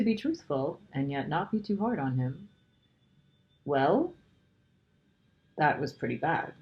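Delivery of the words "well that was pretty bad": put-on slow, careful, gentle girl; rather slowly. A narrator's reading. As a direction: weigh each word so as not to hurt him. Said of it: "said Lucy rather slowly".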